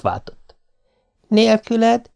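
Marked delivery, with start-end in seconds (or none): 1.3-2.1 soft and tender. A narrator's reading. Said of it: "Mondta lágyan".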